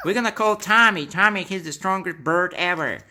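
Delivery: high, loud and laughing; rally the crowd, laughing; excited loud. Pretend. Birds rally against bully.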